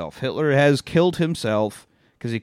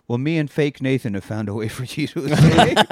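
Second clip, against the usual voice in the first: put-on a child's bluffing voice, half laughing; kid bluffing. Telling friends how Jojo bluffs, mock kid voice. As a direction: play the ten-year-old covering his tracks. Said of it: "he's like".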